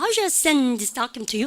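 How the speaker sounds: slow, only "send" and "document" prominent; stress on SEND, DOCUMENT. Shown as a demonstration. Teacher showing what gets heard, stress on "send" and "document". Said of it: "send document만 들리죠?".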